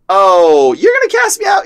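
loud "oh", then high incredulous taunt; mocking demon. Demon challenged by his friend, high mocking taunt. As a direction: jeer as a demon, pitch shooting up. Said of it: "the demon's like".

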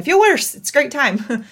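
comic high-pitched worse; squeaky punchline. Real, not acted. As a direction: jump way up, high and loud on worse. Exaggerated punchline.

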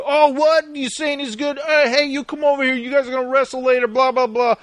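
pushy coach mocked by the hosts. Voicing coach calling kids.

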